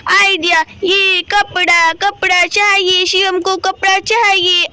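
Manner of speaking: a hint of a child character, slowly drawn out; slow, measured story-boy voice, lightly done; lightly voiced little Shivam. (हल्की-सी बच्चे शिवम की धीमी आवाज़)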